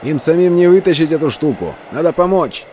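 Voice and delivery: high, loud shout into the gale; shouting over wind. Acted. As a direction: yell to be heard over the storm. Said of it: "прокричал сквозь ветер".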